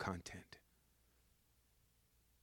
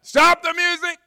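very high, very loud yell to halt the band; shouting over a party; 16 dB louder than usual. Retold or imitated. The guy halts the wedding band, yelling. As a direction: yell it across a crowded room. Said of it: "And they're like".

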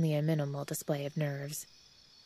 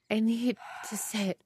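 gasped; 7 semitones higher than usual. A narrator's reading. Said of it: "Adora gasped".

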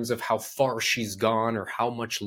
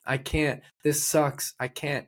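higher-pitched imitation of a whining client; mock complaining; 4 semitones higher than usual. Client moaning to her trainer mid-workout, mock complaint. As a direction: imitate a client protesting a hard exercise. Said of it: "she's complaining, saying".

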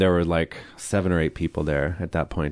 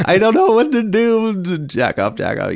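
mock sobbing; 13 semitones higher, 5 dB louder than usual. Recalling a breakdown in the bathroom, hammed-up sobbing. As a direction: imitate yourself wailing helplessly, much higher and louder. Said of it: "I'm, like, sobbing and jerking off".

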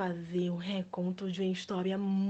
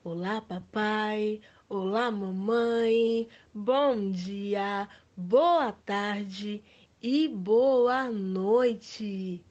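silly clown; much slower than usual. Acted. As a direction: greet the kids like a goofy clown. Palhaço cumprimenta as crianças. (palhaço bobo e animado)

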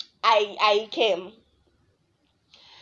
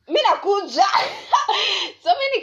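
excited; 9 semitones higher than usual. Retold or imitated. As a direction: call it out eagerly. Eager reply to friend's invite.

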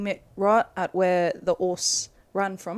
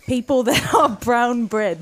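put-on Cockney accent; 3 semitones higher, 6 dB louder than usual. Cockney slang, laughing.

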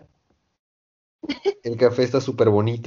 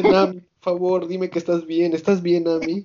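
higher, doting lovesick voice; mock-swooning over Nami; lovestruck Sanji; 6 semitones higher than usual. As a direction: fuss over her like a smitten cook. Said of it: "Sanji dice".

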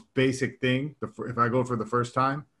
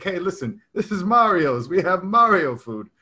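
higher-pitched mock Italian restaurateur; 6 semitones higher, 3 dB louder than usual. Restaurant host presenting Mario food, mock Italian accent. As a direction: put on a jokey Italian accent. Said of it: "which is my way of saying Italian".

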